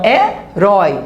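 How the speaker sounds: "herói" split in two, stress on "rói"; stress on last syllable. Shown as a demonstration. Teacher showing students an oxytone word, stressed last syllable. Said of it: "é oxítona".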